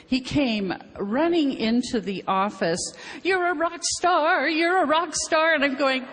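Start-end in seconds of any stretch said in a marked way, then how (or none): 3.2-5.5 excited doctor. Retold or imitated. Doctor running in, quoted.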